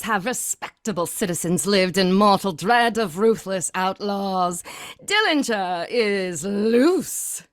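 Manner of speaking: put-on old-time radio narrator building dread; ominous newsreel narration, ending very slow; announcer opening a gangster radio drama; dramatic announcer.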